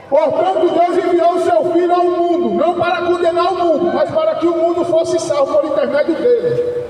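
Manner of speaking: declaimed Bible verse, pitched a little up; proclaiming scripture in measured phrases; scripture reading. Acted. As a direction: read the verse out to a crowd. Reads scripture aloud to listeners.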